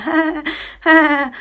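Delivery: high, drawn-out mock laugh; imitated toddler laugh. Mum imitates her son laughing at something, high mock giggle. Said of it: "like, proper laughing".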